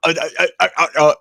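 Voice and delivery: imitated string of stuttered "uh"s; flustered stammering. Co-host imitates wrestler losing his accent, flustered stammer. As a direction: stammer as if catching a slipped accent. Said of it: "almost talking without his accent".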